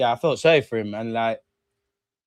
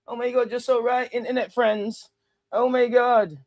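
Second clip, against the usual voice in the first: high, cooing fake fan; teasing high-pitched gush; mock fawning fan; 9 semitones higher than usual. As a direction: gush over internet friends in parody. Mocking chat's fawning reply.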